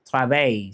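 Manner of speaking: "travail" with a silent final l; French "travail", ending in a y-glide; French pronunciation. Shown as a demonstration. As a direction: say travail the French way, "trah-vai". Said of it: "how do we say job".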